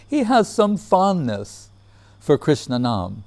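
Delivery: lightly imitated humorous guru; a hint of the teacher's measured delivery; Guru Maharaj. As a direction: quote his gentle joke, pitch lifted at the start. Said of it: "That's the way he said it".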